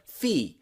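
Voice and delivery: "fe-" said alone as "fee"; isolated stressed syllable. Shown as a demonstration. Teacher isolates the first part of female, stressed syllable. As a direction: cut "female" down to a falling "fee". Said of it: "the first part of that word".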